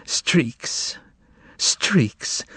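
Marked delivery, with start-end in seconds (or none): 0.1-1.0 breathy whisper, no voice. A narrator's reading. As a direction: barely breathe the word streaks. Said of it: "She whispered to him".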